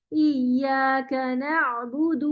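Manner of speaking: ایاک نعبد drawn out slowly; slow recitation. Shown as a demonstration. Teacher models the phrase for Shazia, slowly. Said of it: "اب آپ پڑھیں".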